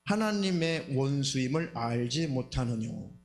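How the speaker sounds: slow, solemn Bible reading; scripture reading. Acted. Preacher reading James to the congregation, solemn slow recitation. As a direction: read the verse out deliberately, drawing out phrases. Reads scripture passage aloud.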